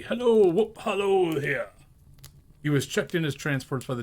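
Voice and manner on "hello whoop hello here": high, loud gleeful calling out; joyful whoop. Acted. Scrooge capering alone, whooping higher and louder. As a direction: whoop it like a boy on a holiday.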